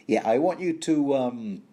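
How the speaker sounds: "I want you to" left hanging on an "um"; stopping short. Acted. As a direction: break off after "to", hunting for a word. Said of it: "he just stops short from saying".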